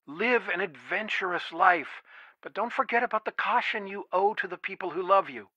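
gentle, earnest counsel; tender fatherly advice. Acted. Father urging caution on his adventurous daughter, tender. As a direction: advise your child with quiet care.

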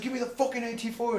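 high, loud, exasperated order; retold pissed-off demand. Narrator repeats order to protesting gunner, pissed-off demand. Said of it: "I was so fucking pissed off".

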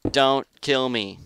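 mock pleading. Begging opponent in fight.

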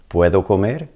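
"Puedo comer?" with the pitch rising on "comer"; Spanish question tune on "comer"; question rise. Shown as a demonstration. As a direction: ask it, lifting the end of "comer". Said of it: "Change your inflection to a question sound".

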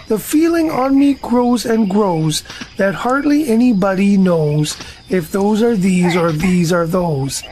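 sing-song poem recital; earnest poem recital; reciting a poem. Acted. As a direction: recite it like a proud little poet. Pooh recites his poem.

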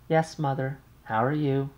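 light high polite thank-you; brisk thanks to the operator; Muriel's polite thanks. Acted. Young wife thanks the operator, lightly polite.

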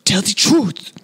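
high mock Nigerian accent; hammed-up Nigerian accent line; Nigerian accent imitation. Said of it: "Our terrible Nigerian, um, accents".

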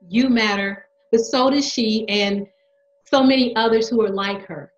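impassioned. Acted. Impassioned speech about her trans daughter.

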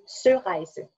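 "Sørreise" said slowly with Danish vowels; native Danish pronunciation. Shown as a demonstration. Dane showing the writer the word, correct pronunciation. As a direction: model "Sørreise" slowly for a learner. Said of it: "if I should just say it".

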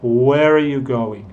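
"Where are" linked, slowly, as "where-uh"; natural linking of "Where are" at teaching pace; reduced "are". Shown as a demonstration. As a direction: shrink "are" to a weak sound. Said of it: "mi manera natural de hablar".

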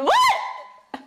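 high-pitched squeak of disbelief; baffled. Real, not acted. To the partner over an odd phrase, baffled squeak. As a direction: shoot up high, incredulous.

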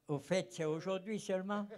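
amused laughing question. Real, not acted. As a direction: laugh it off, half joking. Asked to get to the point. (en riant, amusé)

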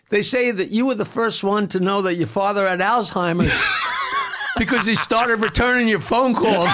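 punchline shouted through laughter; can barely finish for laughing. Retold or imitated. Comic retelling the joke to Patty, laughing and shouting. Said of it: "I said".

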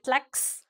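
"tlax" cut off as one syllable ending in KS; lone syllable "tlax" with KS held at the end. Shown as a demonstration. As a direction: end "tlax" on a hissed K plus S. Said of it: "'Cause it's like".

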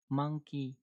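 "Monkey" with the last syllable "ki" falling. Shown as a demonstration. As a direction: let "ki" drop at the end of "Monkey". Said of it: "Chữ ki là đi xuống nha". ("Monkey" với âm "ki" đi xuống)

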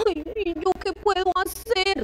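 a high, soft, helpless "ay" of worry; fretting aloud about being unable to help. Retold or imitated. Imitating a worried adult facing someone crying, soft and high. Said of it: "Uno quisiera".

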